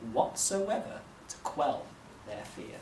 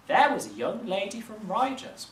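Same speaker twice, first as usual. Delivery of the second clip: higher, louder squawking recital of a limerick; roaring parrot; 8 semitones higher, 4 dB louder than usual. A narrator's reading. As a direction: parrot shrieking a rhyme from the rafters. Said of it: "roared the parrot".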